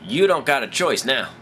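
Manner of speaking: put-on Southern woman, starting high; sassy mock Southern gal; southern accent. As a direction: lay down the law in a Southern accent. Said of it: "didn't really have a southern accent".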